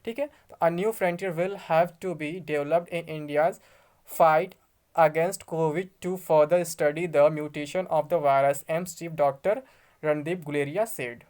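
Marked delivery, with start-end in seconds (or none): 0.6-8.6 slow, word-by-word reading of English text; slow news reading. Acted. Vlogger reads the news to his friends, slow careful reading. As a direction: spell out each English word carefully, slowly.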